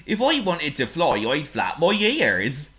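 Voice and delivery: a dim pig offering advice. Acted. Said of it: "said Oink, thinking".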